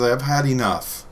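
enough said as ee-NUFF, slowly; long E on enough. Shown as a demonstration. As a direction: stretch out a long EE to start enough. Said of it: "you do a long E on enough".

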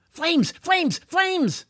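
high-pitched repeated cries; calling out urgently. A narrator's reading. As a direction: call out in rising urgency to lure her. Calling dragon toward lighters.

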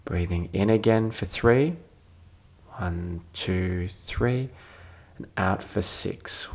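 calm, measured meditation voice with long pauses; guided meditation. Real, not acted. Doctor leading a listener towards sleep, calm guided meditation. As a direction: gently guide them through it, leaving space to breathe.

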